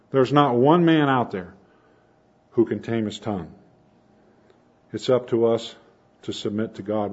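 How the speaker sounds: ordinary talk, nothing marked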